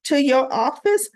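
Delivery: indignant boss. Retold or imitated. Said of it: "he goes".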